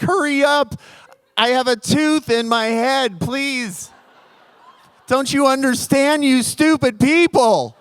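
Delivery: begging them to hurry, in his head; exasperated inner plea. Retold or imitated. Telling the clinic staff to hurry, with mock exasperation. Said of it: "That was all in my head".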